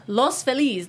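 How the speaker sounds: Los Feliz said slowly, lohs feh-LEES; Los Feliz, Spanish-style with a long E; correct pronunciation. Shown as a demonstration. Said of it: "That's how you say it".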